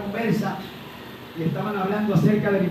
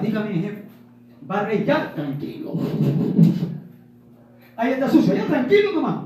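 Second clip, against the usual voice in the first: fawning employee. Retold or imitated. Preacher mimics an employee buttering up his boss, mock fawning. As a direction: play the eager worker sucking up to the boss.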